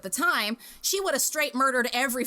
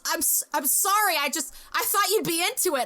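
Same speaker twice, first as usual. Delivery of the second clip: imitating a flustered apology, higher pitch; horrified apology; 6 semitones higher than usual. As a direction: stammer out a mock-horrified excuse. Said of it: "he looked horrified at himself".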